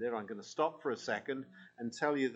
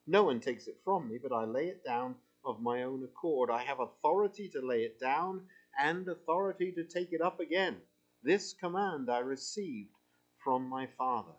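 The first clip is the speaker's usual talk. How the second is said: scripture reading. Acted. Reads scripture aloud to congregation.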